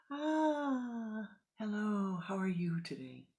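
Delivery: high, light cheerful greeting; friendly monk. Acted. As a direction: greet them pleasantly. Monk greets visitors calmly.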